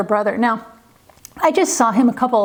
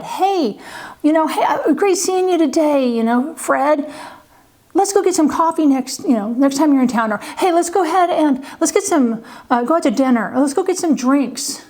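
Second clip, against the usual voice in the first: higher, breezy adult small-talk voice; casual friendly promise; 4 semitones higher than usual. Retold or imitated. Adult mimicking a friend's breezy coffee invite. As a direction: toss off a friendly offer you won't keep. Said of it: "maybe even you said".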